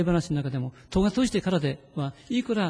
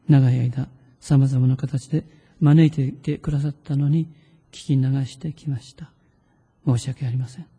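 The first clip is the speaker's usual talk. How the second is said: read-aloud prayer. Shown as a demonstration. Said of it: "声に出して意識して読んでみましょう".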